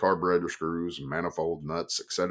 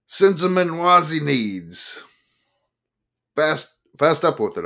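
croaked; 9 semitones higher, 7 dB louder than usual. Acted. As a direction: croak it out, higher. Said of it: "I croaked".

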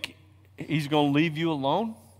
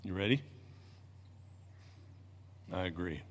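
much softer, low; 7 semitones lower, 9 dB quieter than usual. Real, not acted. Aside to a small child.

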